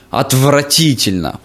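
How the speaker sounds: slow scornful teacher verdict; mock disappointed teacher, drawn out; bad acting. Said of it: "таким тоном".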